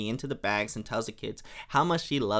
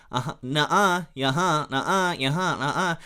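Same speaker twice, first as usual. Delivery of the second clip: mock sibling squabble; acted playground back-and-forth; childish bickering. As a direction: trade quick childish contradictions.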